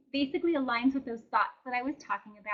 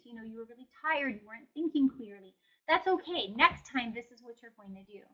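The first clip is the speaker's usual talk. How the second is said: kind inner coach; 4 dB quieter than usual. Retold or imitated. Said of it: "we wanna use a voice that".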